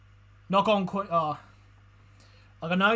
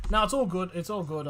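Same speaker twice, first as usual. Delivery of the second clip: genuinely reassuring "all good"; sincere reassurance. Real, not acted. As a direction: say it like you really mean it. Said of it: "I didn't mean it".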